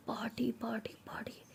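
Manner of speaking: sad fading. Acted. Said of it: "बहुत ही ज़्यादा sad हो जाती".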